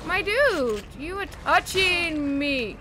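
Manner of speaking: slow furious shout; angry yell. Real, not acted. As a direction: bellow at him to back off. Enemy grabbing the player.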